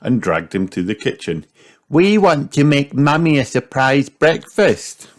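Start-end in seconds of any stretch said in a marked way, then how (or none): 1.9-5.1 excited. A narrator's reading. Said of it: "said Peppa excitedly".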